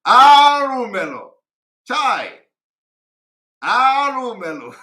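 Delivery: loud, high, drawn-out cry of Alumelo; imitated shout. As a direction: wail it out like he's being beaten. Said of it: "started shouting".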